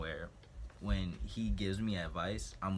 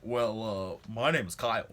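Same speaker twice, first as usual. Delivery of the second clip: a hint of a hesitant nerdy guy, rising at the end; lightly voiced shy introduction; imitating Kyle; 4 semitones higher, 6 dB louder than usual. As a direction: stretch out the well, then say the name. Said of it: "this is exactly what he did".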